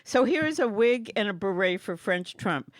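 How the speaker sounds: keeps the hammed-up French accent going; mock French accent. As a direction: reads the card like a bad French impression. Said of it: "that accent, phenomenal".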